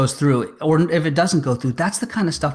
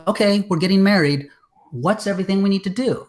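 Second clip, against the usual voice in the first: pitched way up and louder, mock excited; eager planner; 9 semitones higher, 3 dB louder than usual. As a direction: play the giddy newly engaged planner. Imagined producer planning a wedding.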